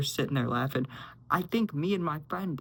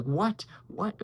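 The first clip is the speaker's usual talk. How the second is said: retold shock, pitched up; 6 semitones higher than usual. Friends react to the scream, mock shocked. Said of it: "sent all of us into a mini shock".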